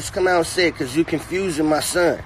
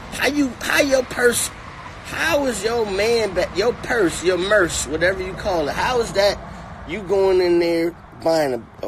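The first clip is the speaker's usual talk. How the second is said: mock outraged rant; 6 semitones higher than usual. Ranting at the rapper.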